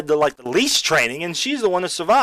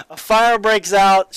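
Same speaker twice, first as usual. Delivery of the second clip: higher, louder and slow, hammering each word; emphatic repeat; 6 semitones higher, 6 dB louder, slower than usual. Real, not acted. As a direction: repeat it with full force for disbelief.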